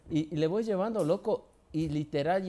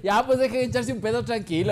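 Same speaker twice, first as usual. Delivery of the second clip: grandma's punchline; 7 semitones higher, 4 dB louder than usual. Retold or imitated. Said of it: "y dice".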